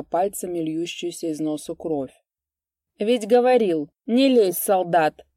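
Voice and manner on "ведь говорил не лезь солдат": loud, higher gloating taunt; gloating jeer. A narrator's reading. Vaska jeering at the beaten soldier, gloating. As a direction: rub it in with malice. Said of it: "ехидствовал Васька".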